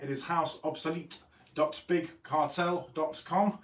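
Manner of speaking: slow, every syllable of "house obsolete dot big cartel dot com" spelled out crisply; carefully enunciated. Shown as a demonstration. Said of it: "very enunciated there".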